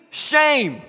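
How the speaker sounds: high imitated shriek, falling away; screaming old lady. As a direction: screech it as a scolding granny. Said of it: "She's screaming".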